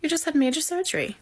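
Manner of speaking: German nurse's accent, lightly voiced. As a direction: play the firm German nurse, a hint of accent. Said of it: "She hit in an accent".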